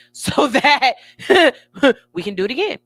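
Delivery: laughing it off. Retold or imitated. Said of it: "I'm just like".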